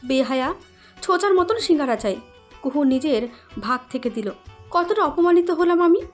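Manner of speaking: high-pitched, heated rant; outraged big sister; angry complaint. Acted. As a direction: protest the humiliation to mother, voice rising. Ayana rants about brother shaming her.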